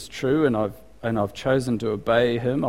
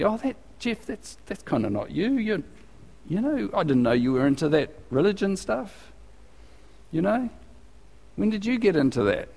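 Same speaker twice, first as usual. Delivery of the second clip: mock friend's voice; 7 semitones higher, 5 dB quieter than usual. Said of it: "I've had people say to me".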